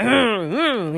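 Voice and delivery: short mock warrior grunts; imitated grunting. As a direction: grunt like a barbarian, played lightly. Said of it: "he's just, like, grunting".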